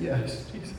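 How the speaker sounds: a breathless whispered yes. Retold or imitated. Preacher retelling his surrender to Jesus, whispered. Surrender after weeping on floor.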